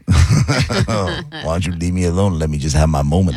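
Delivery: lightly put-on smooth talker; mock complaint with laid-back cool; a hint of a suave guy; smooth brother. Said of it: "doing Smooth Brother".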